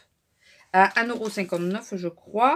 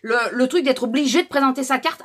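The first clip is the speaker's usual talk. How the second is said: annoyed outburst; 4 semitones higher, 4 dB louder than usual. Real, not acted. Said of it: "je suis un peu remontée".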